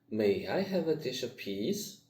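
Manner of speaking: peas lifted up at the end; rising question. Shown as a demonstration. Teacher showing a yes-no question with a rise on peas. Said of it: "high pitch in the end".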